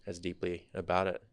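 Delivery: softly, pausing as the feeling catches up; getting emotional. Real, not acted. Son reflecting on his dad providing for the family, getting emotional. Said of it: "I'm kinda getting emotional right now".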